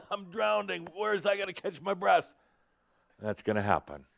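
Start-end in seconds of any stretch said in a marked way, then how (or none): 0.1-2.3 much higher, panicked "drowning"; hammed-up gasping panic; mock panic. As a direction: cry out "drowning" high and alarmed.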